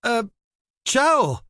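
high, hesitant stammer; child stammering a startled greeting. Acted. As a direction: stumble out a nervous hello. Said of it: "Zoe stammered".

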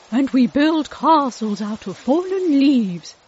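put-on bright, eager kid's line; eager little boy. A narrator's reading. Jacob speaking, louder.

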